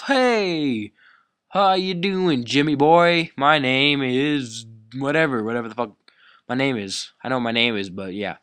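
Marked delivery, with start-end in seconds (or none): 0.0-7.1 fake-friendly hello to the kid; mock greeting. Kid pretending to greet the bully, mock-friendly greeting. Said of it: "introduce myself".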